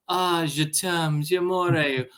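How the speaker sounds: slow, swooning declaration of love; romantic French. Acted. How France sounded, slow romantic swoon. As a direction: draw it out like a lover.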